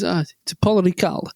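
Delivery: badly faked French accent; awful French accent. Quoting a driver naming the track, awful French accent. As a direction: have a clumsy go at a French accent. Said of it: "That was an awful accent".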